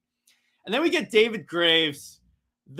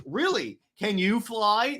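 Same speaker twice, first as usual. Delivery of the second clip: Green Lantern; 5 semitones higher, slower than usual. Acted. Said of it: "Green Lantern goes".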